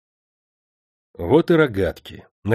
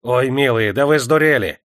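raised lament, climbing to a cry; plaintive shout, slowing and louder at the end; wailing protest; 4 semitones higher, 6 dB louder than usual. A narrator's reading. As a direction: wail at them to stop. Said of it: "заголосил приказчик".

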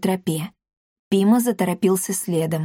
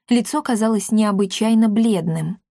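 usual speaking voice

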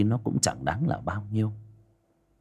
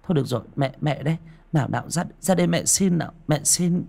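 giọng người mẹ cao hơn, dỗ dành; vỗ về đứa con đang khóc; 8 semitones higher, faster than usual. Acted. (người mẹ dỗ con gái đang khóc, giọng dỗ dành)

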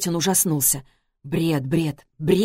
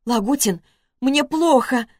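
tearful plea; 8 semitones higher than usual. A narrator's reading. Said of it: "Она захлёбывалась в слезах".

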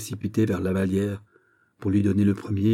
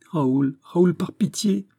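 high, anguished begging; desperate plea; 10 semitones higher, 5 dB louder, slower than usual. A narrator's reading. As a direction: beg him for pity, pitch climbing. Heroine begs for pity. (supplication aiguë et désespérée)

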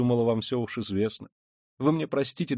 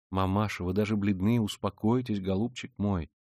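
tender, caressing; 3 semitones lower than usual. Acted. Dunya calming her pale mother on the stairs, tenderly. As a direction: comfort her gently. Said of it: "ласкаясь к ней".

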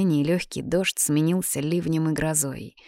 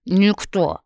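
talking through a mouthful; mouth full; 3 semitones higher, 4 dB louder than usual. A narrator's reading. Girl chewing a pancake answers her questioner, mouth full. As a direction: answer with food still in your mouth. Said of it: "с набитым ртом ответила Софочка".

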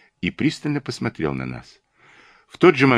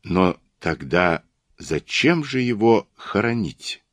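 very gentle question; slower than usual. Acted. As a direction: ask it gently, taking your time. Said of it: "очень мягко спросил он".

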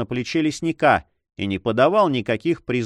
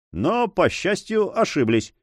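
cheerful reply; 7 semitones higher than usual. A narrator's reading. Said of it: "весело ответил лесник".

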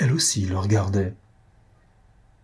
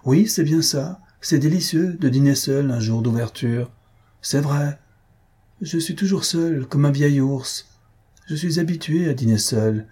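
higher-pitched, self-pitying grumble; grumbling; 4 semitones higher than usual. Acted. Host complains of dining alone on opening day, grumbling. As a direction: complain like a lonely old bear. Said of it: "ne grogne pas".

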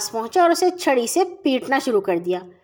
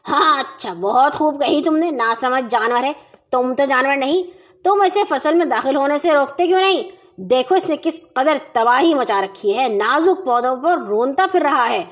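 angry roar. Acted. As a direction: tear into him in fury. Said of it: "غصے سے دھاڑے".

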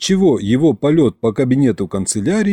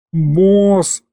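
higher, drawn-out pitiful imp's call; plaintive, confused; 6 semitones higher than usual. Acted. Aristofan whining to his boss, confused. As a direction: whine for help, lost. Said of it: "жалобно и растерянно протянул бес".

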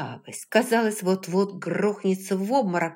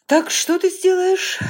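much higher and louder, challenging; loud taunt; 13 semitones higher, 10 dB louder than usual. A narrator's reading. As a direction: dare her to act. William taunts; voiced very high.

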